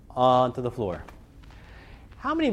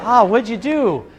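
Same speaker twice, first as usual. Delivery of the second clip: put-on excited kid; 7 semitones higher, 7 dB louder, slower than usual. Kids trading candy stories.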